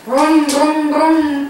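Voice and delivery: rhythmic humming brum-brum; revving noise for a toddler; car engine. Shown as a demonstration. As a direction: imitate a toy car motor. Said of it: "there's the car".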